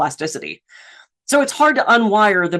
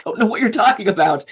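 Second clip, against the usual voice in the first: put-on bewildered teen attitude; deadpan teen; 5 semitones higher than usual. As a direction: drag out "I am fifteen" like it's obvious. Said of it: "I just looked at him".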